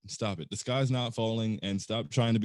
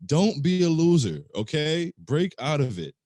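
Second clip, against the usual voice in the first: scolding; 4 semitones higher, 7 dB louder than usual. Real, not acted. Scolding pessimistic fans.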